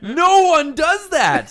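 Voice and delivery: high, loud and laughing through the words; laughing disbelief. Retold or imitated. Friend laughing at roommate's sleepwalking story, high laughing disbelief. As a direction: crack up while denying it.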